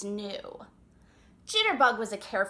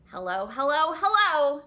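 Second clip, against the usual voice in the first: louder with each hello; calling hello; 3 semitones higher, 6 dB louder than usual. Acted. Chipmunk calling to the goose and otters. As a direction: call out, the last one loudest. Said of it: "shouted Jitterbug".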